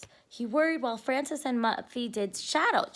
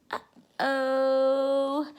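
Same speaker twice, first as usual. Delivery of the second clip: uh-oh. Acted. Reader reacts to rabbits.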